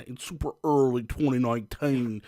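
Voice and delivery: put-on British "twenty noineteen"; playful fake British vowels on "nineteen"; mock British accent. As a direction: slip into a hammed-up British accent. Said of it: "I don't know why I'm doing an accent".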